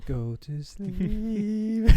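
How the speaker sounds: slow, high Cockney sing-song; Cockney accent. Pretend. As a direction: lull them off in Cockney. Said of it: "In a Cockney accent".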